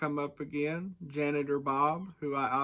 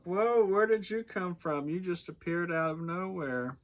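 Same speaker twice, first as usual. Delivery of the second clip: startled; 4 semitones higher than usual. Retold or imitated. Boys startled by Merlin.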